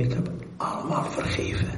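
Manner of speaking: hushed, fast whisper of the Lord. Acted. The Lord answering the weeping man, whispered. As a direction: breathe the words like a gentle secret. Voicing the Lord's gentle answer.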